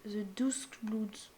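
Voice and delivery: English title in a French accent. Real, not acted. Gamer reading out a newly revealed title, French-accented English. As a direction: read the English name slowly with a French accent. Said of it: "désolé pour mon accent anglais".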